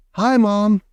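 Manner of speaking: high, mouse-like little voice; a shrunken boy squeaking; tiny squeaky voice. A narrator's reading. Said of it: "no louder than the squeaking of a mouse".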